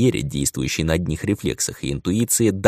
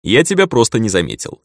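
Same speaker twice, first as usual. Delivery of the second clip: mocking; 2 semitones higher, 4 dB louder than usual. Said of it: "последние слова отдавали таликой насмешки".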